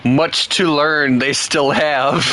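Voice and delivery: slow, lightly voiced Yoda; slipping into Yoda. Streamer unknowingly slips into Yoda to tease British chat, slow. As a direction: drift into a slow Yoda cadence. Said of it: "Why did I turn into Yoda?".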